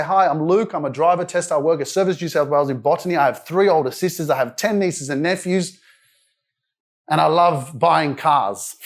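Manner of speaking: steady, easy self-introduction; confident intro. Retold or imitated. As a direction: introduce yourself freely without fear. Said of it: "I can't even sit there and say".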